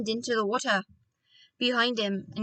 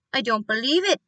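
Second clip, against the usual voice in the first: louder disbelieving outcry; cried out; 5 dB louder than usual. Acted. Doctor crying out to father in disbelief. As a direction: burst out in shocked disbelief. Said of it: "he cried".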